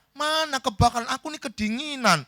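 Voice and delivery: high, whining protest; disbelieving complaint. Acted. Woken sleeper telling friend he is cold, protesting.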